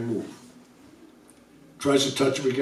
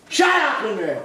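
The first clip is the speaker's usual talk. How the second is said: higher, laughing shout to the back; calling out; 7 semitones higher than usual. Real, not acted. Storyteller laughing as he tells the noisy room to shut up. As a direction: yell at them to pipe down, half joking.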